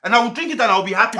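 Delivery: fast, loud and laughing; laughing boast. Acted. Driver taunting his boss, fast and laughing. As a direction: rattle it off with a laugh.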